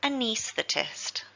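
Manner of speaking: anaesthetist slow and careful, second syllable knees stressed; slow teaching model of anaesthetist. Shown as a demonstration. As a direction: model anaesthetist again for learners. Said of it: "the stress is on the second syllable, knees".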